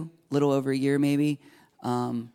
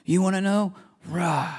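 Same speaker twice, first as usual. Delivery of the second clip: retold upset outburst; 5 semitones higher than usual. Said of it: "I got upset about it".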